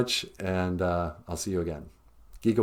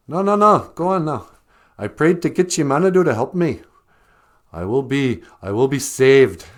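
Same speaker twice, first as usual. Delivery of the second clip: high, loud insistent refusal; stubborn rabbit; 5 semitones higher, 7 dB louder than usual. Acted. Rabbit refusing the bear's help, high and insistent. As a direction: wave him off, sure of his prayer.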